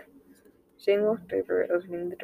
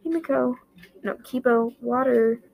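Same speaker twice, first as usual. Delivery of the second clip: loud call to the dog; 5 semitones higher, 7 dB louder than usual. A narrator's reading. Himiko calling Kibo for water, loud. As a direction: call the dog, louder and higher.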